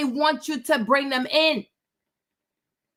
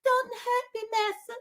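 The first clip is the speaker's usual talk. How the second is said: high, whiny creepy creature pleading; whimpering Golem; 13 semitones higher than usual. Retold or imitated. Golem cowering and begging his master not to hurt him. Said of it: "He's like".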